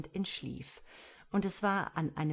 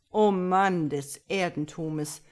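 fiddler calling out; 6 dB louder than usual. Acted. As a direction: call it out grandly. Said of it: "rief der Geiger".

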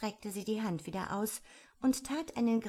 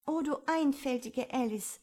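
raised, mildly scolding voice; self-reproachful, a little higher; scolding herself; 6 semitones higher, 3 dB louder than usual. A narrator's reading. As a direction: chide yourself out loud. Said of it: "schalt sie sich selbst".

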